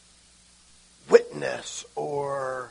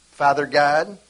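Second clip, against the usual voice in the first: calling out; 6 dB louder, slower than usual. Shown as a demonstration. Acted prayer letting go.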